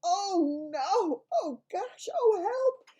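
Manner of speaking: escalating disgusted yelps; disgusted cries. Acted. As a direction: panic at a horrible taste. Girl tasting vile food.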